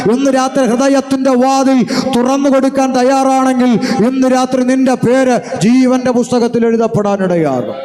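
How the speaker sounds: drawn-out, insistent altar call; urgent gospel appeal to the crowd; fervent preaching. Real, not acted. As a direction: preach it with long, sustained phrases.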